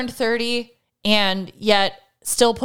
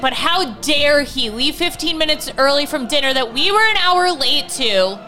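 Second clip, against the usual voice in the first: sarcastic rant; 3 semitones higher than usual. Retold or imitated. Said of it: "I lost my mind and was like".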